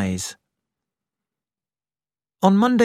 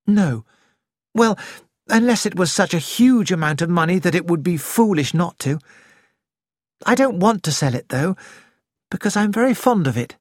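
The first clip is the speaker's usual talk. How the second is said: put-on higher, quick young woman's voice; Nick, firm; 5 semitones higher than usual. Nick refusing to sell End House, higher and quick.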